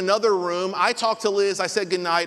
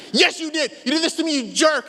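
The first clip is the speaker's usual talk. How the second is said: high, louder indignant blame; angry accusation; 8 semitones higher, 3 dB louder than usual. Retold or imitated. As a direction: insist hotly that he did it. Brother accuses him over wasp.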